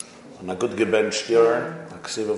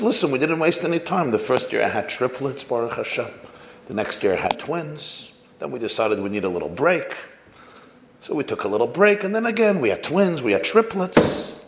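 proud excited mother; 3 semitones higher than usual. Retold or imitated. Proud mother boasts of her children.

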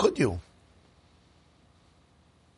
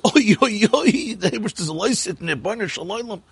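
mock panicked hollering. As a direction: imitate a panicked old man crying out. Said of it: "he's screaming and he's hollering".

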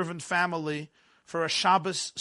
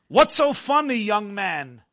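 a hint of an indignant teacher; stern teacher challenge; 4 dB louder than usual. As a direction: demand an answer from a pupil, voice dropping on the address. Teacher challenges laughing pupil.

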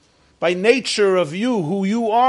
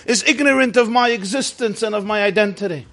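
hollering; 7 semitones higher than usual. Retold or imitated. Trump hollering at the old woman who doesn't know him. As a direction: holler it like an outraged celebrity nobody recognizes. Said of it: "He starts hollering".

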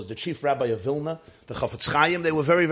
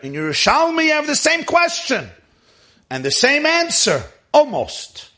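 Talmudic exposition; 7 semitones higher, 5 dB louder than usual. Acted. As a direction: press question and answer on the listeners, pitch held high. Cites parallel Talmud source.

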